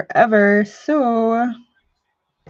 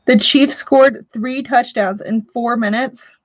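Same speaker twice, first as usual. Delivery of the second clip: enthusiastic voice; slower than usual. Pretend. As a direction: fake enthusiasm, drawn out. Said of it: "That was my enthusiastic voice".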